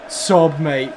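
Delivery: usual speaking voice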